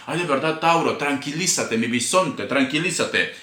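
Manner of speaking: reassuring the anxious Taurus, softly; soothing. Acted. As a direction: settle the viewer down gently. Calming anxious Taurus viewer.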